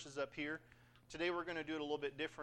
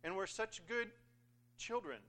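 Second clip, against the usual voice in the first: higher-pitched whiny plea; mock complaining; 4 semitones higher than usual. Israelites complaining to God about being ignored, mock whining. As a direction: plead like hard-done-by children. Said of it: "the Israelites are complaining".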